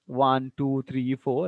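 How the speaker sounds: each number turned up, "four" left hanging; unfinished upward count to "four"; rising list intonation. Shown as a demonstration. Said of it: "rising tone is there".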